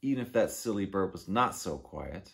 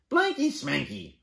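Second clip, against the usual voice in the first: dismissive bird voice; 4 semitones higher, 5 dB louder than usual. Acted. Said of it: "said the bird".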